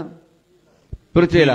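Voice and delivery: slow, sung-out prompt word; drawn-out cue. Acted. Preacher cueing the congregation to answer, slowly drawn out. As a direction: stretch the word out slowly so the crowd can answer.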